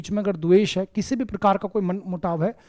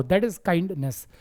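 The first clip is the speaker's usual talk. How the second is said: slow emphasis; 3 semitones lower, much slower than usual. Shown as a demonstration. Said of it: "जब आपके अंदर बड़ी दया हो".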